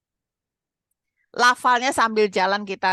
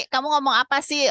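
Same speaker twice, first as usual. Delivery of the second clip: raised-pitch puzzled retort; puzzled listener; 6 semitones higher than usual. Retold or imitated. Listener to a learner who is hard to understand, puzzled. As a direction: imitate someone baffled by unclear speech.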